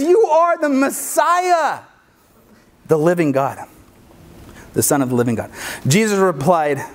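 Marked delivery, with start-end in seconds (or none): 0.0-5.5 slow proclamation. Retold or imitated. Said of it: "But he got it right this time".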